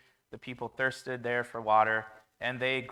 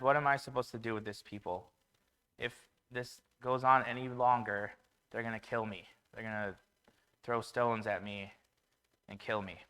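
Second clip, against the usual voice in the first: quiet fearful plea. Retold or imitated. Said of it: "Moses cries out to the Lord".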